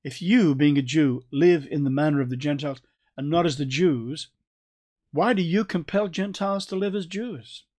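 "you" stressed as a personal challenge; pointed YOU. Acted. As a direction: read it straight at one person, leaning on each "you". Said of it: "it's you I'm talking about".

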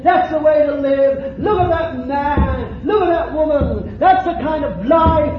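loud, high proclamation, each "That's" hammered; preacher shouting God's proud proclamation; proclaiming shout. Pretend. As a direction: cry it out to the whole congregation as if showing off a saint. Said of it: "I can put you forth and say".

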